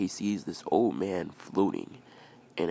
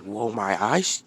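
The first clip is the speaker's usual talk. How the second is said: louder, drawn-out whoa of wonder; acted astonishment; amazed reaction; 5 dB louder, slower than usual. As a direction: stretch it out, rising in amazement. First take of amazed reaction.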